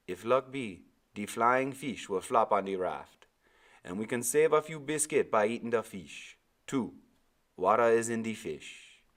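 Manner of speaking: put-on high, loud island-accented old man; old Caribbean sailor. Old sailor answering the boy, Caribbean accent. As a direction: give Timothy his lilting Caribbean voice. Timothy speaks.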